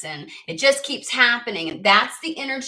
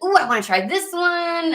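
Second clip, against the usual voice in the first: much higher, louder delighted 'Ooh'; playful customer spotting a tempting drink, excited; excited coffee customer; 9 semitones higher, 4 dB louder than usual. Pretend. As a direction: squeal over a tempting drink. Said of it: "and then you're like".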